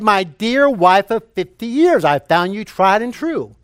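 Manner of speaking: repeating for hard-of-hearing wife. Retold or imitated. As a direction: repeat the tribute so she can hear. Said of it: "she had difficulty hearing".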